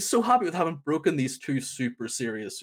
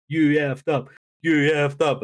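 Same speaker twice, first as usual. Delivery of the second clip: imitated crowd chant, a little raised; crowd shouting; 3 semitones higher, 5 dB louder than usual. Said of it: "the crowd shouting".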